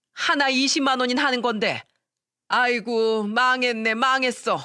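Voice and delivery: 한탄하는 시어머니. Acted.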